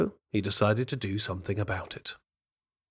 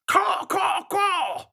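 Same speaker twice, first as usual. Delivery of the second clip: high, cawing raven call; shrill-free boastful bird cry; much slower than usual. Acted. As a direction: caw out like a proud raven. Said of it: "he'd boast from his tree".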